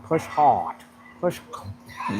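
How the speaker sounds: mock gym coach pushing hard; imitating Lee Haney. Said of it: "They be like".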